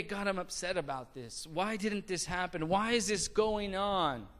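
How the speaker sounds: softly voiced, reverent complaint; restrained upset. Preacher modeling an upset prayer to God, softly pleading. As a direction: keep the upset hushed and respectful. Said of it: "when you're upset, it's okay".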